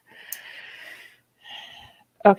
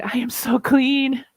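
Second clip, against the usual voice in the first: blissful; 4 semitones higher, slower than usual. Retold or imitated. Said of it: "comes out in such a better mood".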